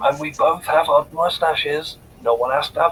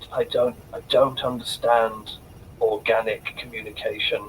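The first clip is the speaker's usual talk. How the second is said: genuinely sad voice, faltering and stumbling at start; 4 semitones lower, 4 dB quieter than usual. Playing a character who looks really sad: acting really sad. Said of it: "I look really sad, genuinely, and just go".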